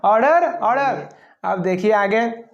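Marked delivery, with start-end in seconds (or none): 0.0-1.1 judge calling order. Retold or imitated. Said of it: "जज साहब".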